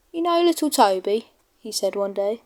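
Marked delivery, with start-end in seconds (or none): 0.1-1.3 higher, boastful engine voice; conceited James. Acted. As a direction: talk down to little Toby, show-off. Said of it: "James got very conceited about it".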